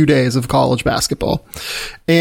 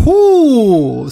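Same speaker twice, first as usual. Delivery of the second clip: drawn-out ooh; 8 semitones higher, 4 dB louder than usual. Real, not acted. Reacting to a bold claim.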